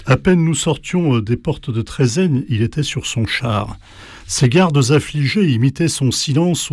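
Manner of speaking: measured recital of classical alexandrines; theatrical poetry reading, steady rhythm; reciting Racine. Shown as a demonstration. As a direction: declaim the verse as a stage recitation. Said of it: "Phèdre de Racine".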